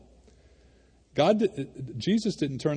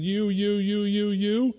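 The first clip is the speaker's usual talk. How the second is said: finger pointer; 7 semitones higher, slower than usual. Retold or imitated. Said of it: "finger pointer".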